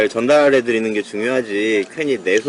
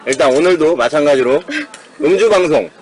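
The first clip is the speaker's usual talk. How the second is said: normal talking voice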